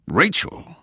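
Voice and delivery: high, startled exclamation; shocked. A narrator's reading. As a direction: gape at the name in shock. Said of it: "He gaped in shock".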